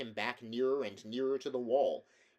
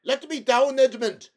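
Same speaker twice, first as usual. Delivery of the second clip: high, loud furious howl; a dangling prince howls at his enemy; 17 dB louder than usual. A narrator's reading. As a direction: howl it, hanging helpless. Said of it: "howled Rabidash".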